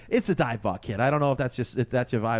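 lightly imitated old Queens local; retold Queens accent. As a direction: put on a Queens accent, talking to a kid. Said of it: "most strong Queens accent you've ever heard".

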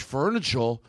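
"furniture" with a Boston final vowel, its R lost; mock Kennedy Boston accent. Comic quoting the president's "furniture" in a mock Boston accent. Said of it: "John F. Kennedy ... He was like".

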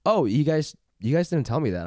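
mild, even-voiced protest; calm retelling. Customer recounts her complaint to the store, calm and sweet. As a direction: retell it calmly, sweet and reasonable. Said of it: "you said it in a calm".

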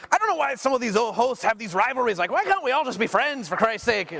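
put-on Scottish accent. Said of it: "That's the worst Scottish accent I've ever heard".

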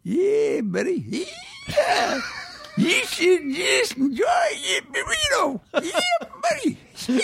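hollered, very high-pitched American caricature; American accent. Shown as a demonstration. Guest hamming up the podcast sign-off, shrieky American accent. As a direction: whoop it out as a yelling, over-the-top American. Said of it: "in your favorite American accent".

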